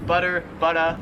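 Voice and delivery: "butter" with an R, then "butta" ending in uh; R kept, then dropped. Shown as a demonstration. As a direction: go from American "butter" to Australian "butta". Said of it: "The R is not really pronounced".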